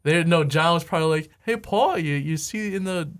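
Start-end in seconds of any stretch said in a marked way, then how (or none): 1.4-3.1 put-on half-hearted British accent, pitched up; attempted British accent. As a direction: try a British accent and lose it. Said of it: "I was gonna do a British accent".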